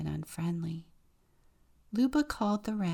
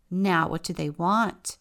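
impatient; 7 dB louder than usual. Acted. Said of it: "the wren asked impatiently".

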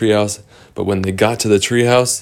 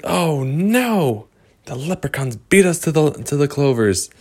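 dismayed character voice; 6 semitones higher than usual. Acted. Characters dismayed at missing clovers.

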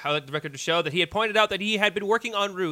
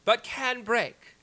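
courtroom lawyer; 2 semitones higher than usual. Acted. Closing argument continued.

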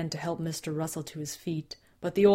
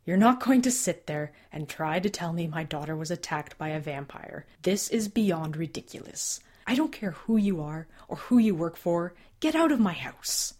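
angry; 3 dB louder than usual. Acted. Father rejects the story.

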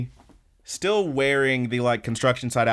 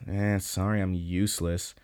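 mild dejected apology; 4 semitones lower, 5 dB quieter than usual. Retold or imitated.

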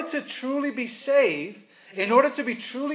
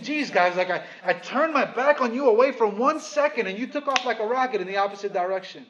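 voicing Paul; 2 semitones higher than usual. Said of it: "It almost feels like he's saying".

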